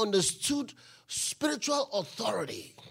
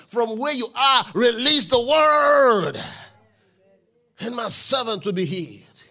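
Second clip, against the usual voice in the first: building shout; 2 semitones higher, 10 dB louder than usual. Acted. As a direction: drive the command home. Preaching the centurion's faith.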